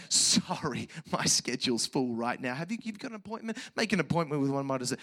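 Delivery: offhand, hurried receptionist-style refusal; mock busy professional, speeding up; mock brush-off. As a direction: rattle off a dismissive excuse. Mock refusal put in Jesus' mouth.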